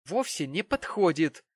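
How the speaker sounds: loud, high, shaking with rage; trembling with anger. A narrator's reading. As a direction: spit it out furiously. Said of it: "задрожав от злости".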